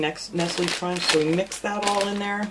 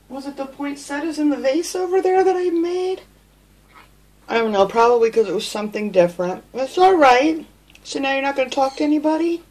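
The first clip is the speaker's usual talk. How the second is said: high pet talk; 7 semitones higher, 9 dB louder than usual. Real, not acted. Owner soothing her frightened pet bird after it flew, high sing-song baby talk. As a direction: coo and soothe the shaken little bird, high and bright.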